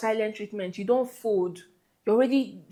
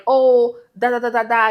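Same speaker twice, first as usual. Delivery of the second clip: mock girlfriend brushing him off, loud; nasty attitude; 2 semitones higher, 8 dB louder than usual. Girlfriend mocking her begging boyfriend, nasty attitude. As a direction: scoff it out dismissively. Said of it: "giving you that nasty attitude".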